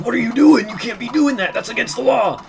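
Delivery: high, loud mocking cop; sneering high-pitched impression of a cop. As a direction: parrot the cop in a squeaky high voice. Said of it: "they're like".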